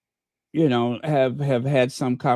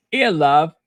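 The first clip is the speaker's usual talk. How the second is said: hammed-up English accent; bad English accent; 4 dB louder than usual. Host clowning for live viewers, bad English accent. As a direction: do a badly faked English accent. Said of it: "I do the worst English accent".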